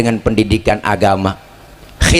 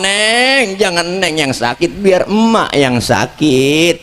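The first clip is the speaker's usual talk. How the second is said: slow it down, lovingly; tender mother; 4 semitones higher, much slower than usual. Retold or imitated. Mother imitated comforting her sick daughter, slow and tender. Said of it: "emak ngomong".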